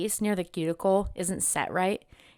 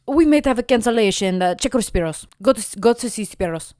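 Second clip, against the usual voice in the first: manicurist voice; 4 semitones higher, 8 dB louder than usual. Retold or imitated.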